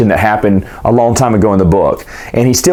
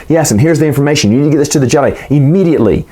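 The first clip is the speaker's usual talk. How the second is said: hurried urgent plea; 4 semitones higher, faster than usual. Retold or imitated. Lorn urging the senator.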